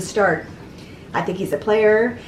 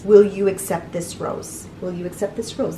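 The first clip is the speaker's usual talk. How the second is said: mock host line; 4 semitones lower, 3 dB quieter than usual. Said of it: "the biggest repetitive thing that they do is".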